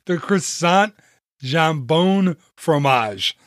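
halting, amateur French accent; awful French accent. Shown as a demonstration. Host recommending a French menu item, awful French accent. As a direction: slowly stumble through it in bad French. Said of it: "excuse my awful French accent".

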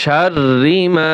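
শাররি মা slow, with a doubled র and a long final vowel; slow recitation. Shown as a demonstration. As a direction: stretch মা by one alif. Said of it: "এক আলিফ টান হবে". (ধীরে টেনে তেলাওয়াত)

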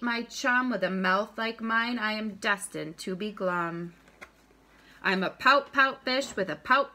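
bouncy picture-book rhyme, punching each pout; reading to children. A narrator's reading. Teacher reads a rhyming fish book to students, read-aloud lilt. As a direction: read it aloud with a lilting beat.

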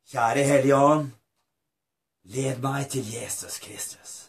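measured prayer with long pauses; earnest, spaced-out congregational prayer; leading a prayer. Real, not acted. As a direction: pray phrase by phrase for others to repeat. Leads a salvation prayer.

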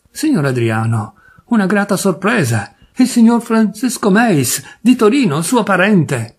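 Papiano's showy introduction. Acted. Papiano announcing the cousin to the guest, oily cheer.

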